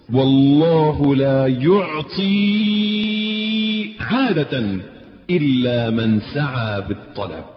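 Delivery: slow, drawn-out sermon emphasis; solemn slow pulpit delivery; preaching. Real, not acted. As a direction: stretch each word like a preacher from the pulpit. Preaching at full force.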